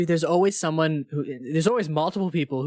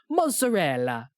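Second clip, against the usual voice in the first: put-on Italian accent; slower than usual. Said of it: "for the word mozzarella, he goes".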